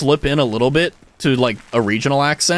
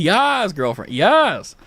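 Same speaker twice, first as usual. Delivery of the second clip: slow, stretched Californian drawl; 3 semitones higher, much slower than usual. Shown as a demonstration. Imitating the annoying classmate, slow Californian drawl. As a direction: stretch the vowels like a mock Californian Valley girl. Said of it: "the Californian drawl".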